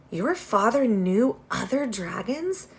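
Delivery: eager. Acted. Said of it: "the dragon asked eagerly".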